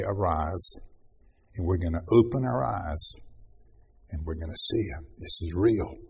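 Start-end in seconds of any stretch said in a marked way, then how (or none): 0.0-0.8 tender call. Acted. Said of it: "He's gonna say".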